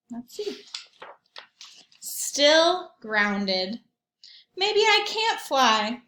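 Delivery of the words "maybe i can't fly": high, slow and wistful Ball voice; a small ball admitting defeat, slowly; Ball's voice, sad. Acted. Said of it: "Ball said".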